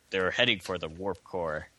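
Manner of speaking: light Spanish accent, imitating a game voice; a hint of a Spanish-accented announcer. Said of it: "your Spanish accent's pretty good".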